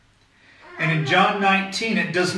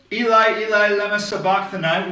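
louder, higher anguished cry in Aramaic; 4 semitones higher, 3 dB louder than usual. Acted. Pastor voicing Jesus crying out from the cross, loud and high. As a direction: cry it out to the Father, raised up high. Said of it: "Jesus cried out with a loud voice".

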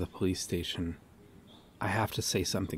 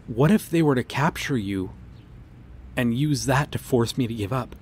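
louder, urgent worry; anxious pleading; 4 dB louder than usual. Acted. Officer pleading with him about capture, urgently louder. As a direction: push the fear into his face.

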